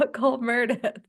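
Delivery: "Meredith" squashed to "Mer-dith"; misspelled-name pronunciation. Shown as a demonstration. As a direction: say "Meredith" as two syllables, like "MUR-dith". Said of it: "I have to say Meredith because".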